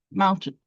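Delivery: MOUNtain, first syllable stressed and falling away. Shown as a demonstration. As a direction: hit the MOUN of "Mountain", let "tain" drop. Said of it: "a stressed syllable followed by an unstressed one".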